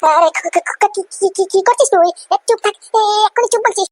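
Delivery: scolding shout. Acted. Mother shouting at her son to shut up. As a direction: hush him sharply, voice climbing.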